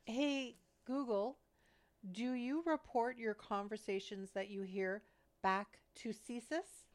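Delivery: slow, careful repeat to the speaker; repeating to voice assistant. Real, not acted. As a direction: say it slowly for the machine. Repeats question slower.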